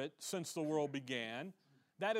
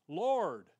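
louder acted plea, falling at the end; imploring cry; 7 dB louder than usual. Woman appealing to the Lord, acted imploring cry. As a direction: call out as if begging for help.

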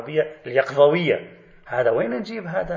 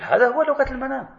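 much higher put-on voice of Soroush; mock Soroush voice; 10 semitones higher than usual. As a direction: mimic him stating it as obvious. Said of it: "يقول". (تقليد ساخر بصوت مرتفع الطبقة)

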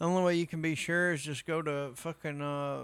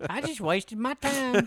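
mock exasperation; 9 semitones higher than usual. Voices the let-down viewer.

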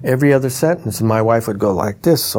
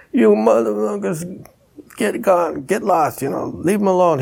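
tough guys chasing off the gang; 9 semitones higher than usual. Retold or imitated.

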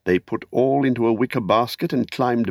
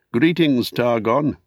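raised voice hailing a friend; calling out; 2 semitones higher, slower than usual. Acted. Beregond calls to Targon through the hatch, raised voice. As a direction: call a greeting through the hatch. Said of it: "he called through the hatch".

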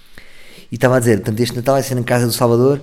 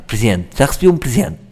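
affected. Retold or imitated. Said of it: "é um bocado afetado".

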